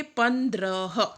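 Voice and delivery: पन्द्रह said slowly, each syllable पन्-द्र-ह spelled out clearly; slow classroom demo of पन्द्रह with a rising end; careful pronunciation. Shown as a demonstration. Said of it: "तो इसे किस तरह से उच्चारित करेंगे". (पन्द्रह को धीरे धीरे साफ़ साफ़ बोलना)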